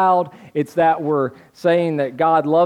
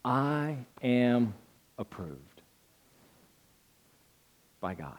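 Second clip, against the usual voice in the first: quiet; 7 semitones lower, 12 dB quieter, slower than usual. Real, not acted. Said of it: "I was reminded".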